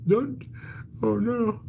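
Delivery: high squeal of don't; laughing plea to stop the yawn talk; high, mock-dismayed oh no; playful protest. Real, not acted. Chat makes her yawn.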